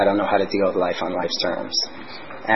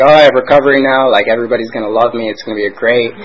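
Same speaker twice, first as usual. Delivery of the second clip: higher, louder, pumped-up bragging; mock cocky excitement; 3 semitones higher, 8 dB louder than usual. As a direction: puff yourself up like you've already won. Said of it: "And I was like".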